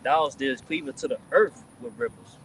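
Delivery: slow, emphatic Bible reading; scripture reading. Real, not acted. Reading Habakkuk to the group, emphatic scripture reading. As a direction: declaim it with drawn-out key words and pauses.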